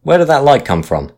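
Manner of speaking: high, loud angry roar. A narrator's reading. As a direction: bellow at the watch. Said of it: "roared the skipper".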